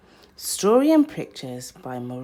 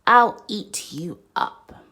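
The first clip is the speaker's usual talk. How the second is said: playful threat; 7 dB louder than usual. Acted. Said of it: "and Max said".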